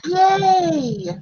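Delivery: high happy yay; excited cheer. Real, not acted. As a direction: cheer it out, delighted. Celebrating the echo fix.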